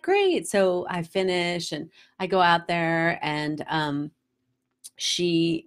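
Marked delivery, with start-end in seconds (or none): 0.0-0.5 put-on high, bright-eyed child's "Great"; excited kid. Imitating the daughter, high and eager. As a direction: mimic the daughter's eager yes.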